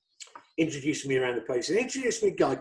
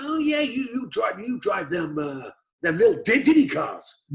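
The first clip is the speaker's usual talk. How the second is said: imitating Dale; 6 semitones higher than usual. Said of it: "He goes".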